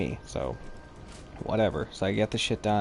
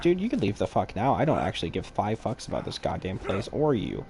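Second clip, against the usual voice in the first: retold eruption. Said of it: "I just immediately erupted".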